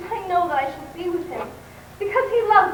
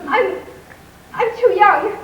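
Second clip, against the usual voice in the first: flustered and loud; 3 semitones higher, 6 dB louder than usual. Acted. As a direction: blurt it out in a fluster. Flustered girl refusing proposal.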